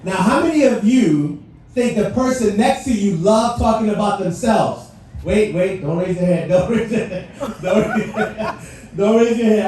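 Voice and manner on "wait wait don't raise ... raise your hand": laughing while waving them off; laughing warning. Real, not acted. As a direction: tease them through a laugh. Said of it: "teasing audience, laughing".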